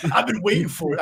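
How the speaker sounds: a hint of a wrestler impression; mock wrestler growl; Macho Man. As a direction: lightly slip into wrestler talk. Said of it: "I just went Macho Man".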